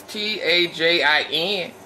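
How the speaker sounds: slow spelled-out letters, one by one; spelling it out. Shown as a demonstration. Telling viewers how to find the Tajin, spelling letters slowly. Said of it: "I don't know how to pronounce it".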